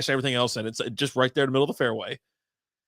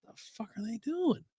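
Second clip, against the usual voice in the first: muttered aside; 7 semitones higher, 11 dB quieter than usual. Retold or imitated. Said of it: "And I was like".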